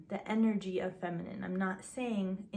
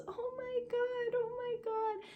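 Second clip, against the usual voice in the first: high, slow, tearful oh my God; retelling a woman overcome at a proposal, high and tearful; overwhelmed crying. Retold or imitated. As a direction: imitate her breaking into happy tears. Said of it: "starts to cry, and she goes".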